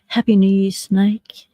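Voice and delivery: breathy whispered New Year wish; whispered greeting. Real, not acted. Greeting chat members on stream.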